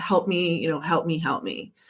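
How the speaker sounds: put-on crying, tearful, pleading voice. Retelling begging for help from the bathroom: imitating own crying plea. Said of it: "crying in the bathroom".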